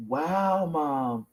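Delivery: soft, impressed retold reaction; hushed amazement. Son finding mom's page on his phone, quietly amazed. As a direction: imitate quiet wonder, letting it sink.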